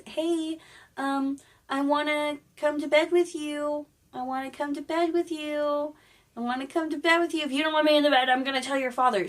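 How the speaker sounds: high, insistent mock frog voice; pestering frog. Frog pesters princess to share bed.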